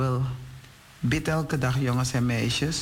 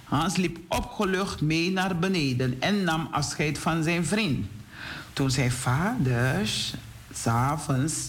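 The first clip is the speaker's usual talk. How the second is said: put-on storytelling to children; 2 semitones higher than usual. A narrator's reading. Telling boys and girls about Hans and his friend, animated storytelling. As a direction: read it out clearly for young listeners.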